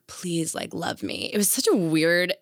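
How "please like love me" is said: soft imitation of someone needy; pleading for love. Waitress imitating the magician's entourage, mock needy. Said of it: "so patronizing and also, like".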